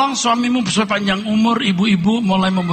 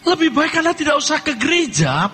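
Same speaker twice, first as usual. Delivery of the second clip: raised, pressing pulpit warning; fiery preaching; 7 semitones higher than usual. Acted. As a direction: hammer the warning home from the pulpit.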